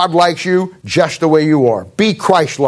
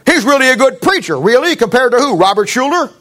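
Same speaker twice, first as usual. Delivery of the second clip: mock praise; 7 semitones higher than usual. Mock exchange about a preacher.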